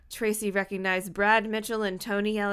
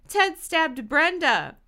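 emphatic accusation; 6 semitones higher, 5 dB louder, slower than usual. A narrator's reading. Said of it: "Dina declared".

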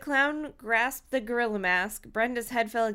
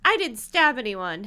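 tense, louder denial; clenched teeth; 2 semitones higher, 7 dB louder than usual. Acted. Halle denies stabbing anyone, clenched teeth. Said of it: "declared through clenched teeth".

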